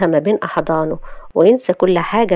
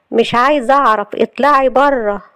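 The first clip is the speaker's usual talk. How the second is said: raised pitch, curt refusal; refuse, then draw out the order; angry dismissal; 5 semitones higher, 3 dB louder than usual. Acted. Wife refusing to hear her visitor out, angry.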